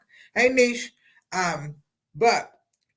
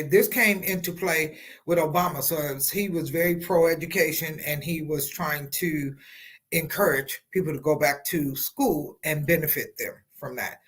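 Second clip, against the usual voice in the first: talking through a swollen lip; fat lip. Real, not acted. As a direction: speak as if one side of the lip is puffy. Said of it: "And excuse my lip".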